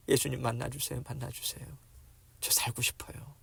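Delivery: softly murmured entreaty; quiet pleading. Acted. Beggar begging Jesus to meet him, quiet pleading. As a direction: beg softly, fading away.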